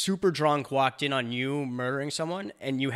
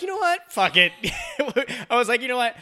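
very high, loud laughing fuck it; mock reckless cheer; 11 semitones higher, 7 dB louder than usual. Cheering the son on at the casino, high and giddy. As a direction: say it with giddy abandon. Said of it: "Which I was like".

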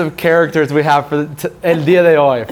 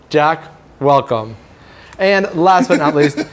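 talk show host voice. Acted. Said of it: "I'll put on my talk show host voice".

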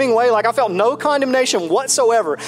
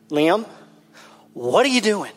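put-on high-pitched, exasperated lecture to a screaming kid; dad losing it at his four-year-old, mock outraged; retold fuming rant; 4 semitones higher than usual. Father scolding his son in the car, exasperated and high-pitched. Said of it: "I just start fuming".

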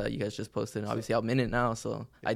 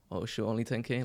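a quieter, shrugging letdown; jaded and unimpressed; 5 dB quieter than usual. Retold or imitated. Newcomer later jaded by ten K numbers, unimpressed. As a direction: sound spoiled by big numbers. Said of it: "right away you get desensitized to it".

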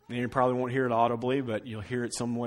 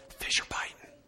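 unvoiced early-morning whisper; dad's whisper; 6 dB quieter than usual. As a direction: whisper so nobody else wakes. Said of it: "became a whisper".

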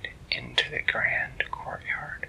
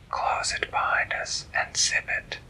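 whispery butterfly voice. Acted. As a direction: hush it like a small butterfly. Butterfly speaks to Skyla.

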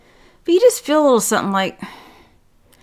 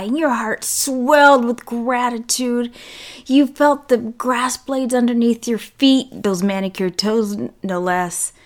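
sarcastic. Acted. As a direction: lay the sarcasm on sweetly. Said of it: "if you cannot hear the sarcasm".

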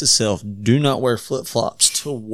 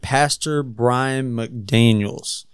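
slow country accent on the name; much slower than usual. Real, not acted. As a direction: drawl the name out, country style. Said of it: "That's my country accent".

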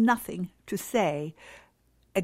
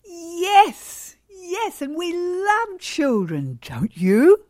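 cheerful reply; 9 semitones higher, 6 dB louder, much slower than usual. Pretend. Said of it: "put a smile on your face and say".

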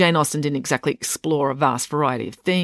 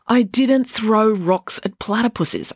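argued; 7 semitones higher, slower than usual. A narrator's reading. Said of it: "argued Selby".

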